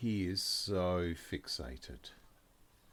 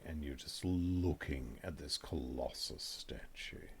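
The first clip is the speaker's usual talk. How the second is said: hushed, lower narration with long pauses; game master's scene setting; 4 semitones lower than usual. A narrator's reading.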